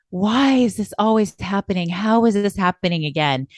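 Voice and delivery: imitating a friend's exasperated lament; mock complaining. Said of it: "where they're just like".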